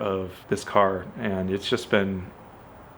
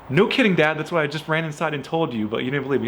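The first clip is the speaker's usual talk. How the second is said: raised, exasperated retort; 5 semitones higher, faster than usual. Retold or imitated. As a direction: snap back at dad, fed up. Annoyed reply to dad.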